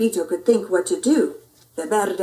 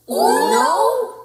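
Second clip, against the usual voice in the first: high, loud count; shout; 8 semitones higher, 7 dB louder than usual. Acted. Dog starting the count, loud shout. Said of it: "the doggy shouted".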